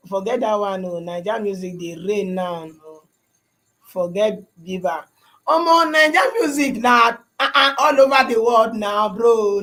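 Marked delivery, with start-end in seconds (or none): 5.5-9.6 excited boast. Real, not acted. Boasting about Naija music.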